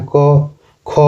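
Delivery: light क, then push air out on ख; teacher demonstrating breathy release on ख; aspiration contrast. Shown as a demonstration. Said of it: "इसको क ऐसे पढ़ें".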